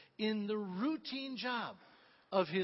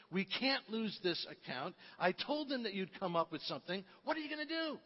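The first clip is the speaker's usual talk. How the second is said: agitated coworker; 3 semitones higher than usual. Retold or imitated. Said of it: "comes to you all agitated".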